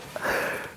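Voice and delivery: short breathy nervous laugh; an awkward, uneasy chuckle. Real, not acted. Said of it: "It's, it's a nervous laugh".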